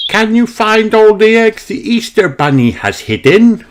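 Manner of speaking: put-on high, bright question to the children; Mummy Rabbit asking. A narrator's reading. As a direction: lift the voice up high to invite the hunt. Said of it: "she asks".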